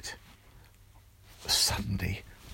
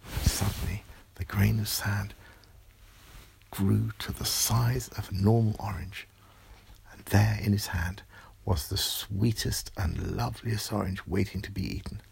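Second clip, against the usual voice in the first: whispered bedtime narration. A narrator's reading. Parent whispers the story's magic moment to a child.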